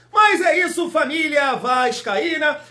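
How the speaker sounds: high, loud call to fans; big high-pitched hype shout; shouted rallying greeting. Real, not acted. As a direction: shout it out to the whole fanbase.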